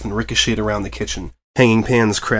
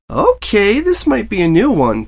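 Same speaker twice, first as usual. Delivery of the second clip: alarmed; 10 semitones higher, 5 dB louder than usual. Acted. Pinkie alarmed at hissing vat.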